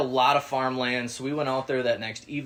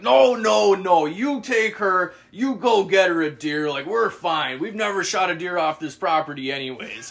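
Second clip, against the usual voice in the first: higher, louder easygoing brush-off; loud hunter guy; 6 semitones higher, 6 dB louder than usual. Retold or imitated. Stranger insisting they take the spot, higher and loud. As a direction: wave it off, lightly voiced loudmouth. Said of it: "He's like".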